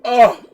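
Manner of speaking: sudden loud, high "oh"; overwhelmed cry. Real, not acted. Fan overcome by a favorite line, loud outburst. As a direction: burst out with a short pained cry.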